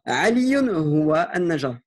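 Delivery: Aliyun huwa an-najar read slowly, syllable by syllable; slow model reading. Shown as a demonstration. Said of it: "Donc, man".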